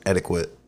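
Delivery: "etiquette" with a kw, as "eddy-kwut"; mock Australian pronunciation. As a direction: put a w sound after the k in "etiquette". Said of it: "In Australia".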